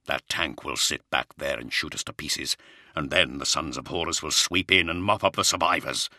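low, stern lord; weary commander, a touch amused. Acted. Primarch continues.

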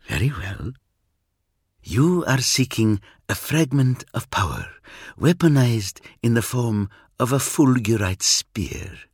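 a cool Eldar, aloof and sure of himself; alien Eldar. Acted. Eldar explains his aims.

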